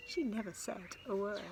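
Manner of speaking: lively picture-book storytelling; sing-song read-aloud rhythm; reading to children. A narrator's reading. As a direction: read it with bounce for little ones.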